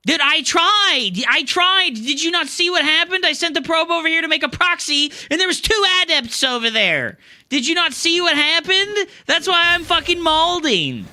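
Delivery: loud, high ranting complaint; real gamer rage, high and loud; frustrated yelling. Real, not acted. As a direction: yell out the frustration. Raging over a lost game.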